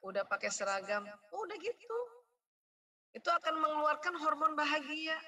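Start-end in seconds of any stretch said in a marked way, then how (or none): 0.0-1.1 lower, gentle thankful voice; grateful praise. Shown as a demonstration. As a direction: thank the child warmly. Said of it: "Kenapa sih nggak bilang".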